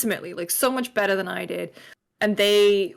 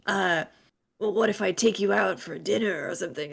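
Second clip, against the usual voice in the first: Snake voice. Retold or imitated. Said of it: "I love your Snake voice".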